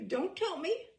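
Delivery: mock-urgent, like a fan racing to place a face; eager fan. Eager fan guessing the name.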